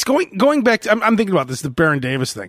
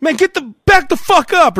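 higher, forceful imagined confrontation; mock aggressive; 10 semitones higher, 4 dB louder than usual. Host guesses what the angry player said, mock aggression. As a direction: play an athlete telling someone to back off. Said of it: "said something really ignorant to you".

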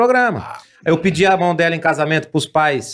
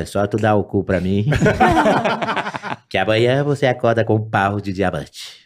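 low slow dwarf voice; 6 semitones lower than usual. Retold or imitated. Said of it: "Eu falei".

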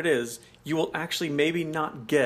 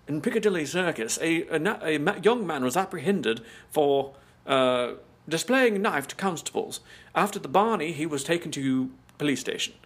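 newsreader. Acted. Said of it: "watch the evening news and they'll say".

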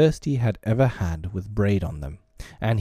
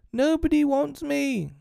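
put-on very high, slow child's lament; plaintive small boy close to tears; nearly crying. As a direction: wail it slowly, high as a hurt child. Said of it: "Michael had nearly cried".

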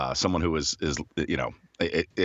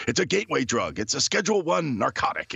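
mock stern old dad; 8 semitones higher than usual. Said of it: "he's of that generation where it's like".

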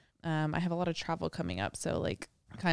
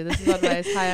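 louder show-intro announcement; podcast intro; 6 dB louder than usual. Real, not acted.

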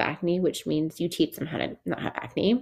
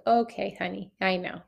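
soothing tone. Pretend. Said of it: "Kinda like".

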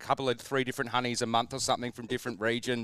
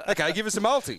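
mocking whiny voice; 8 semitones higher, faster than usual. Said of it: "They're like".

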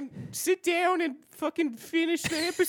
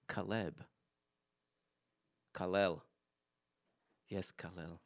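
put-on Indian accent; 12 dB quieter than usual. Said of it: "are you doing an Indian accent now".

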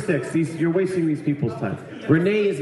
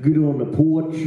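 Kentucky accent; 3 dB louder than usual. Shown as a demonstration. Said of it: "you have a full-on Kentucky accent".

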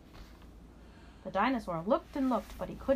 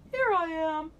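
triumphant reveal; 9 semitones higher, 6 dB louder, slower than usual. Acted. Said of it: "said the dinosaur".

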